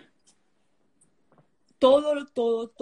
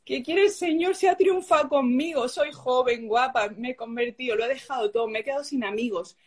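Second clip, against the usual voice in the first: put-on childlike complaint; 3 semitones higher than usual. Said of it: "como el de una niña chica".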